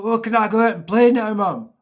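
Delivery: put-on high, loud, fast little boy begging to go out; young son asking mum to go out and play, high and quick; eager little kid. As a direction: rush it like a kid desperate to play.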